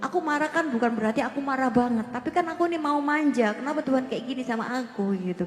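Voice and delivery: put-on pouty childlike pleading; pleading to God. Believer asking God's pardon, pouty childlike pleading. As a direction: coax God like a spoiled child. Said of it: "Aku bilang, Tuhan".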